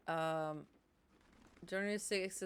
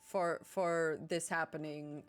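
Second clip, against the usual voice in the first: mock blaming; 4 dB louder than usual. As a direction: mimic someone pointing the blame. Mimicking people who blame others.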